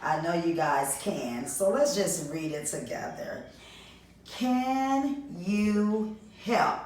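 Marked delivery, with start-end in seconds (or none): 4.2-6.8 recorded prompt. Acted. Teacher plays recorded prompt.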